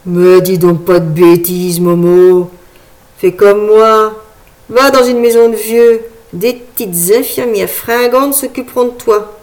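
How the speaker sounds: a slightly put-on character voice, forceful at first; good-natured scolding between old friends; lightly voiced teasing friend. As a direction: lightly play an old pal talking him out of nonsense. Dialogue of Maurice's friend Joseph.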